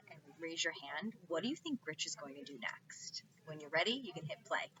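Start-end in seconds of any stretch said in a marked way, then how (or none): 1.3-3.2 whispered question to the class. Shown as a demonstration. Teacher whispering a question to the class. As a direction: lean in and whisper it.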